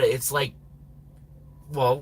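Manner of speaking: usual speaking voice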